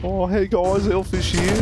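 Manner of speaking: lightly voiced streamer greeting; a loose, barely changed take on a streamer intro; elfish voice. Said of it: "That's not how he sounds".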